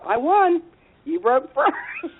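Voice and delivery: high, laughing triumph; gloating laugh. Retold or imitated. Daughter gloating at her mother, high laughing crow. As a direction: crow that you won, laughing.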